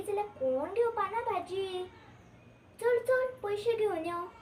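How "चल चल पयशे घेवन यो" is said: higher, louder hurrying call; urging along. Acted. Seller sending customer off for money, urgent call. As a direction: shoo them along with a raised voice.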